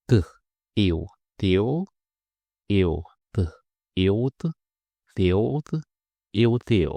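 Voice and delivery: til with tongue tip behind the upper teeth; t sound drill with il. Shown as a demonstration. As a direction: tap the ridge for t. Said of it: "le bout de la langue touche".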